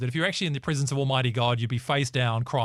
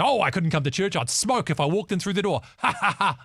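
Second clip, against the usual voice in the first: lightly voiced friend, laughing, a little higher; mock nervous friend; 5 semitones higher than usual. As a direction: play the friend who fears church. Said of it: "They say".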